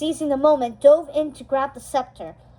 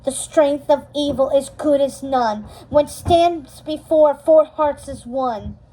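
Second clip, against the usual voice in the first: confident incantation; 4 dB louder than usual. Acted. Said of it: "She incanted confidently".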